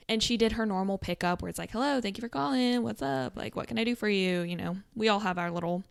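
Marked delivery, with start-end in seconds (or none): 1.7-4.4 bright, upbeat phone greeting; sweet customer service phone voice. Retold or imitated. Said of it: "Customer service voice".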